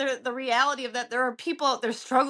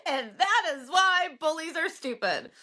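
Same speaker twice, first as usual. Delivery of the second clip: slow, higher-pitched recital of a school essay; essay reading; 4 semitones higher than usual. Acted. Wrapping up an essay about why bullies are stupid, mock-recital. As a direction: read it out like a child's closing essay line. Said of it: "End of essay".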